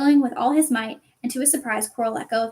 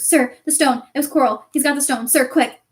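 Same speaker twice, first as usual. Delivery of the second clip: urgent, louder pleading; 2 semitones higher, 4 dB louder than usual. Acted. Harry urging Dumbledore about the stone, urgent. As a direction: hurry the headmaster.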